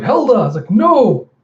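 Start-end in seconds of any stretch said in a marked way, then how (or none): 0.0-0.5 high, loud call for help; desperate acted shout of a name; crying out. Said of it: "Telsa cries out". 0.7-1.3 high, loud drawn cry; horrified shout. Acted. Helda sees captain taken overboard.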